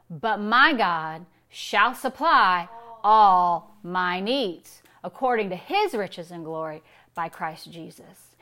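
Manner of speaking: MY GOD, SUPPLY and ALL stretched slow and punched; "all" drawn out, then easing down; emphatic scripture recital. Shown as a demonstration. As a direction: declare the verse slowly, leaning hard on "all". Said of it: "we're changing the emphasis on every word".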